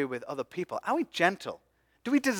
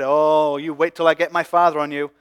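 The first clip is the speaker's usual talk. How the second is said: louder, threatening mock shout back; hammed-up vengeful shout at the soldiers; angry retort; 8 dB louder than usual. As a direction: hurl it back at the mockers as a threat. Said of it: "He could have shouted back at them".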